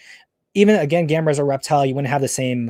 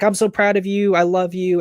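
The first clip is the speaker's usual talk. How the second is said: high, hammed-up fake affection; mother praising son after the win, high mock gushing; mock doting gush; 7 semitones higher than usual. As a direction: gush like a mother who only loves the money. Mother gushes after winning money.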